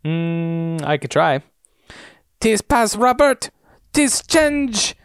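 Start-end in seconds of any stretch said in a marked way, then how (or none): 2.4-4.9 high-pitched attempt at French, coming out German; badly faked French, high and drawn out; bad French accent. Cohost asked to voice Danielle in French, terrible French accent. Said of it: "you really ought to say it in French".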